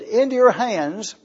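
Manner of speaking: reading scripture aloud. Shown as a demonstration. Preacher quoting Jesus' last words on the cross, solemn. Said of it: "When Jesus said".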